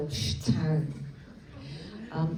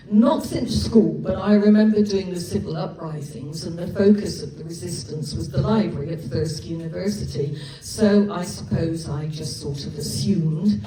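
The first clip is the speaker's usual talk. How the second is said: flustered; 3 dB louder than usual. Acted. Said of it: "words failed him".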